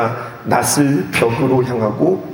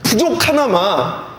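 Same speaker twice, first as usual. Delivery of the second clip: weeping prayer; 12 semitones higher than usual. Acted. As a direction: cry out to God like a dying king begging. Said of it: "심히 통곡하는데 말이 뭐냐면".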